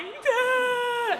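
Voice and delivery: piercing high shriek; screaming girls. Retold or imitated. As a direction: imitate a terrified scream. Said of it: "the girls who are on the benches are like".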